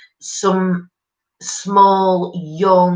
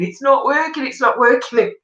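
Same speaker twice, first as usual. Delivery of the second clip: higher, whiny mock protest; a higher, whingeing imitation of Ian; imitating husband's complaint; 7 semitones higher than usual. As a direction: mimic him insisting it's useless. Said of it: "He kept saying".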